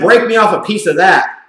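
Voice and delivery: hammed-up eager big spender; mock Redskins front office. A commentator voicing the Redskins front office as an eager big spender. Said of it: "the Redskins looked at that and said".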